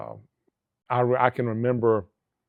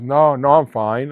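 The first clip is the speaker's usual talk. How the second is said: slow, louder imitation of someone waving off concern; breezy reassurance; 3 semitones higher, 6 dB louder, slower than usual. Crash survivor to worried officer, breezy reassurance. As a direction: stretch it out, lightly insisting all is well.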